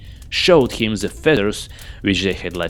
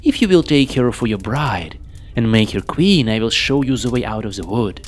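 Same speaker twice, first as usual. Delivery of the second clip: put-on high, cackling old witch voice; sly and threatening, pitched up high; 4 semitones higher, 3 dB louder than usual. Witch sets the king her deadly condition, sly and menacing.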